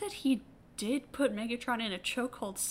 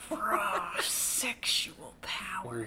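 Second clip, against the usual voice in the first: breathy whisper; 2 semitones lower, much slower than usual. Pretend. Sultry whispered echo of phrase.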